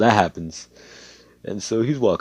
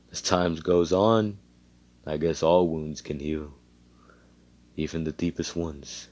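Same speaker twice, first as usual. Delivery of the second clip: soft reflective; 3 semitones lower, 5 dB quieter than usual. Acted. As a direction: speak softly, thinking back. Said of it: "he's found some philosophical shit".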